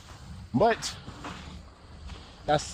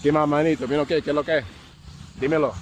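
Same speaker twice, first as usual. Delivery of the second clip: relaxed Colombian paisa accent; Colombian street slang; faster than usual. Shown as a demonstration. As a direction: greet him like a local homie from Medellín. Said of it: "and you saying".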